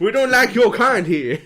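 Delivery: put-on loud, high, slow Arab accent. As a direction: growl it in a hammed-up Arab accent. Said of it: "That's a very good Arab accent".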